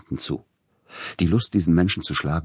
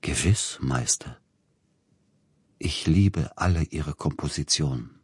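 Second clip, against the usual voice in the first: murmured nasal solemnity; nasal, slow. A narrator's reading. Agent declaring love of compositions, nasal solemnity. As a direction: say it through the nose, slowly and solemnly. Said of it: "besonders näselnd und langsam".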